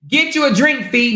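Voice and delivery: high-pitched mock coaxing; mock egging on. Imitating commenters urging a drinker on, mock coaxing. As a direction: imitate commenters goading her. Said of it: "saying shit like".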